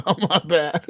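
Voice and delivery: retold apology breaking into laughter; laughing mock apology. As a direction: chuckle through a sheepish quote. Laughs retelling own apology.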